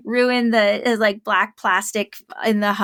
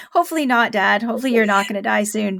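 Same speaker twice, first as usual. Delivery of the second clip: mock worried dad; 2 semitones higher, 5 dB louder than usual. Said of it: "just like".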